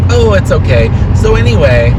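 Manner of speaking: high, airy brush-off, lightly voiced; breezy dismissive customer. A customer waving off the apology, lightly mocked, high and breezy. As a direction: brush the apology aside and move on. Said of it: "And they go, like".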